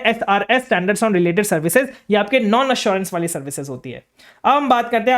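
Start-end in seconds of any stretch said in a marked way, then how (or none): 0.7-1.9 slow dictation. Shown as a demonstration. Repeating term for notes.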